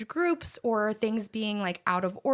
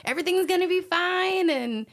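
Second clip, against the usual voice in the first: laid-back Mike impression; 8 semitones higher, 3 dB louder than usual. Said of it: "we just call Mike, he's whole bebopping around".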